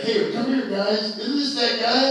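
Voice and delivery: loud mock shout to his friends; calling out. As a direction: call the others over across a bar. MP calling his buddies over.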